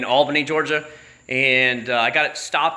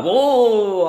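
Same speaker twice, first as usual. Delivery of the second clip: loud, higher whoa to stop him; calling whoa; 9 semitones higher, 7 dB louder than usual. Retold or imitated. Trooper cutting off the driver with a loud whoa. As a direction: halt the rant with whoa.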